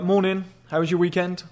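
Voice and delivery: casual, assertive greeting; easy confident hello that keeps moving. Shown as a demonstration. Man greets the office receptionist in passing, assertive. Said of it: "But in that tone".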